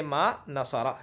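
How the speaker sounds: "नसरा" ending in a long open -a; slow "नसरा", last vowel open; correct ending. Shown as a demonstration. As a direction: say "नसरा" slowly with final -aa. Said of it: "मा नसरी या मा नसरू नहीं".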